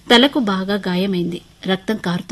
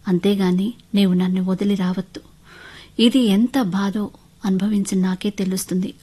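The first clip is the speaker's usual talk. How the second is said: understated remorseful plea; piteous. Acted. Husband apologising to wife, piteously. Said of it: "అంటూ దీనంగా అన్నాడు చరణ్".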